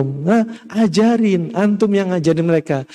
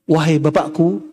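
low, slow, tender call; gentle, respectful address; 4 semitones lower than usual. Acted. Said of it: "Ini panggilan yang sangat halus". (panggilan halus, pelan dan rendah)

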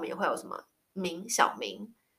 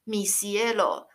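slow demo; much slower than usual. Shown as a demonstration. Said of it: "他可能就会说".

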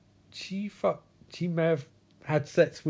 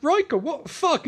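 high-pitched acted protest; mock outrage; 12 semitones higher than usual. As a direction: burst out in exaggerated disbelief. Acted confrontation.

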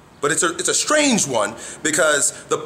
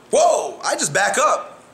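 ordinary talk

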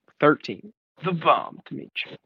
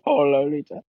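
classic villain voice; 2 semitones lower than usual. Retold or imitated. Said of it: "And he's like".

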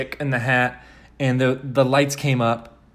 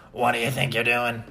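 smoker's rasp, slightly low; deep, raspy tree; 3 semitones lower, 4 dB quieter than usual. Acted. Tree confronting Dorothy, deep smoky rasp. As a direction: growl it like an old talking tree. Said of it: "I sound like I was smoking".

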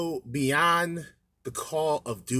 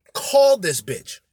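loud mock call; 4 semitones higher, 9 dB louder, slower than usual. Mocking the dognapper's plan.

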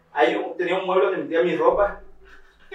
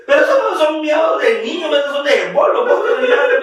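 mother seeing through it; 10 semitones higher, 6 dB louder than usual. Retold or imitated. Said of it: "Mi mamá así".

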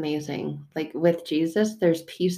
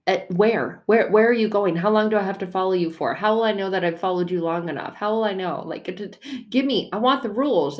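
anxious demands; 3 semitones higher, 4 dB louder than usual. Retold or imitated. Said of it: "I'm like".

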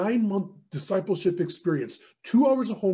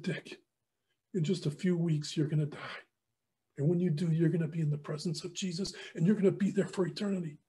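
soft, solemn reassurance; gently prepare a friend for death; retold tender farewell; 2 semitones higher, 4 dB quieter than usual. Mentor honors his dying friend on stage, tenderly.

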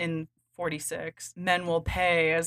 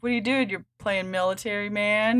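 put-on Russian accent; 3 semitones higher than usual. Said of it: "let me get my Russian accent out".

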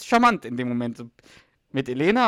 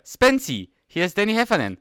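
1 buddy voice; 9 semitones higher, 6 dB louder than usual. Retold or imitated. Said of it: "dann sagt der Danny so".

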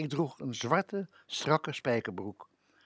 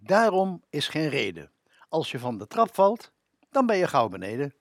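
mock parent rhyme; 3 semitones higher, 5 dB louder than usual. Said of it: "gezegdes van onze ouders".

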